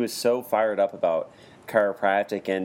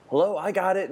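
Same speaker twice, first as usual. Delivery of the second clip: high, eager call from the back of the room; 8 semitones higher than usual. Retold or imitated. Teacher playing both sides of the room, calling out eagerly. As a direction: pop up high like a student with an answer.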